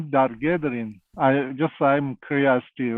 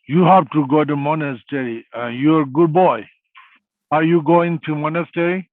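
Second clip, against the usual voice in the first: lightly acted stern, intent teacher, a bit louder; stern holy man; 2 semitones higher, 3 dB louder than usual. Holy man telling a nine-year-old boy to join the monastery, lightly stern. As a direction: imitate an unsmiling, focused holy man. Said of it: "they don't smile. He's always like, like a madman".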